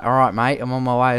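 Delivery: casual Australian soldier's radio reply; Australian accent. Retold or imitated. Gamer shows what his soldier should say, in an Australian accent. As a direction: say it in broad everyday Australian. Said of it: "why isn't he speaking Australian".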